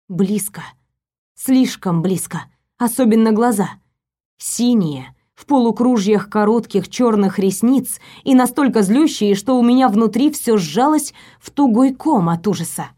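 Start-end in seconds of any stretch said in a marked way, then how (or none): none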